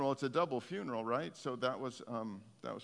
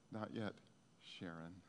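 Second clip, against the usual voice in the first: tender, intimate call; 4 semitones lower, 10 dB quieter than usual. Retold or imitated. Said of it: "there's a familiarity there".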